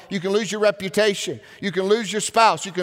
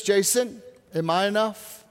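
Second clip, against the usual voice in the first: gentle God voice. Retold or imitated. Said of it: "And he said this".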